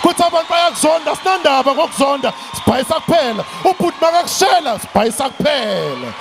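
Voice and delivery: shouted rhythmic call, building; rousing preaching. Acted. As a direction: whip up the crowd with each refrain. Rousing chant closing motivational speech.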